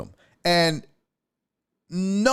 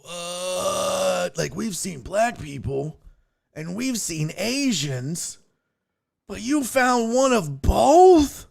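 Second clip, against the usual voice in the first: mock baffled locals; 5 semitones higher, much slower than usual. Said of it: "so they were probably like".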